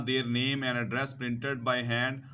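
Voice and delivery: slow, deliberate reading to students; careful classroom read-aloud; slow textbook reading. Acted. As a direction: read each word out slowly for learners. Rereads the text line slowly.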